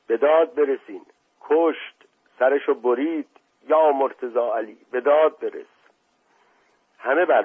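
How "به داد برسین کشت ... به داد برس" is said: higher, urgent alarmed cry; breathless cry for help. Acted. Servant bursts into the party crying murder, urgent breathless cry. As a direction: burst in calling everyone to help. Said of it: "نفس زنان ... و فریاد زد".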